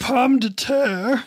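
French word. Acted. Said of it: "I learned a French word".

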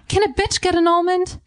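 high, put-on squeaky voice asking for an almond; whiny high plea, like a spoiled girl; squeaky mock demand.

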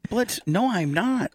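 high, insistent denial; indignant denial. Real, not acted. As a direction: protest that it's not true. Denies being behind on payments.

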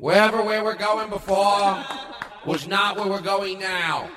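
slow, grand Kennedy voice; lightly voiced Kennedy; JFK voice. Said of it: "I'm John F. Kennedy".

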